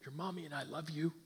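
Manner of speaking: softly spoken, quick fatherly endearment; tender reassurance. Acted. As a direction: reassure a child, hushed and loving. Father's farewell to his son.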